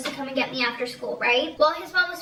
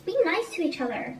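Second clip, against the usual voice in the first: mock scolding; 5 semitones higher than usual. Real, not acted. Scolding the kids in story.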